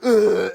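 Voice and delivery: loud, high mock groan; drugged groan. Imitating a drugged man at the payphone, mock groan. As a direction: groan as if about to collapse. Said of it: "he's just like".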